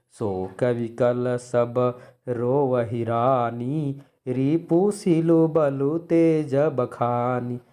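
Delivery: slow, drawn-out lament; sorrowful verse recital. Shown as a demonstration. Teacher reciting the weeping queens' grief verse, sorrowfully slow. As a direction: recite it as mourning, stretching every word. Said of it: "यहाँ शोक है".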